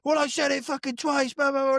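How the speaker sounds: high, mocking rant voice; mock angry bloke. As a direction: parody the ranting customer. Customer ranting voiced high.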